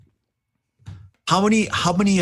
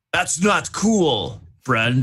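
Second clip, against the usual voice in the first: drawn-out, higher-pitched cry of protest; mock scream; 4 semitones higher, much slower than usual. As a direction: scream it in character at a foe, holding back the volume.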